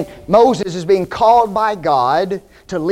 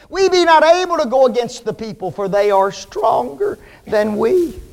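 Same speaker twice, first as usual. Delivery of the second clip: slowing, fearful protest ending in a cry; a touch of frightened men refusing; fearful spies. Acted. Spies telling Joshua they cannot fight, fearful. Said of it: "the men that went with him said".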